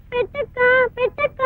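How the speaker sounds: tearful begging. Acted. Hungry little sister begging elder sister to feed her, faint tearful begging. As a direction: beg faintly, worn out with hunger. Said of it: "ఏడవద్దమ్మా".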